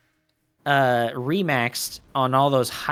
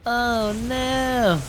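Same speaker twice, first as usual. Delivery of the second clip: dismayed; 10 semitones higher than usual. Real, not acted. Lurkers about to be caught.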